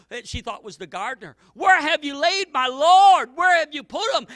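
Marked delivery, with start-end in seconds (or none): 1.5-4.3 loud, high anguished cry for her Lord. Acted. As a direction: call out desperately, searching for the body. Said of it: "And she cries out".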